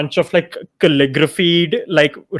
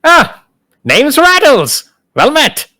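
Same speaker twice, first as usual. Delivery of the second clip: high, slow cheery skeleton voice; lich voice; 10 semitones higher, 6 dB louder, much slower than usual. Acted. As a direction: play a chirpy undead lich. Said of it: "He's like".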